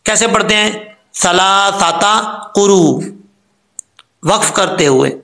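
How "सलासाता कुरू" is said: slow सलासाता, कुरू without the hamza catch; common mistake. Shown as a demonstration. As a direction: recite it the wrong way, slowly. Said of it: "अक्सर लोग गलती करते हैं".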